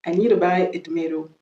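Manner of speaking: American "tomato", to-MAY-do; American accent. Shown as a demonstration. Teacher repeating the example, American accent. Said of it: "je viens de faire l'accent américain".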